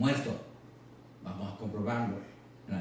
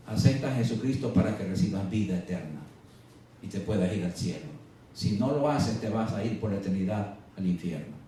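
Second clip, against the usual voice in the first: lower-pitched, gently earnest plea; loving appeal; 6 semitones lower than usual. Acted. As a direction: tell them in love, pitched down. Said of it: "tenemos que decirles en amor". (exhortación con amor, en tono bajo)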